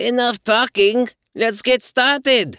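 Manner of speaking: very high, impatient yelling. Werner answers the monk's call for questions: hollered impatiently. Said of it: "Werner hollered impatiently".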